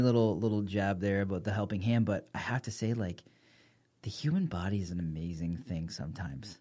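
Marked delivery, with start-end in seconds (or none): 4.0-6.6 hushed and awed; whispering. Real, not acted. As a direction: breathe it out in wonder. Awed remark, unvoiced.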